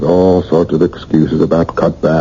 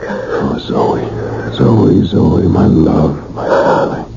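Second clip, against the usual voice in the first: tender whisper; much slower than usual. Acted. Lovers reunite, hushed endearments.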